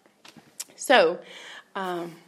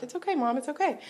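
higher-pitched, imitated reassurance; retold attempt to comfort without crying; holding back tears; 7 semitones higher than usual. Daughter trying not to cry comforts her mom, strained reassurance. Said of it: "I was trying not to cry".

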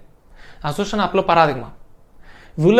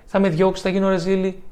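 anxious self-talk; 3 dB quieter than usual. Retold or imitated. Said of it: "Μην αρχίσετε".

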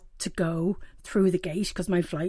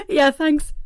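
through sobs; 7 semitones higher, 7 dB louder than usual. Retold or imitated. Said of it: "through my sobs".

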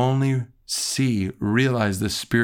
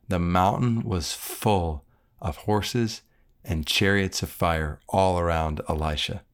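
scripture reading. Acted.

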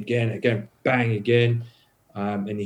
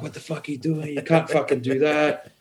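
higher-pitched indignant retort; retold mouthing-off, pitched up without shouting; 3 semitones higher than usual. Telling how he challenged the cop, mouthing off. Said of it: "I was mouthing him off".

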